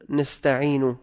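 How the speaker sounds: "نستعين" with its last nun voweled; vowelled final nun. Shown as a demonstration. Teacher introduces a harmless error, final vowel on "نستعين". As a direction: sound the ending of "نستعين" instead of stopping on nun. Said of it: "بفتح النون الثانية أو بكسرها".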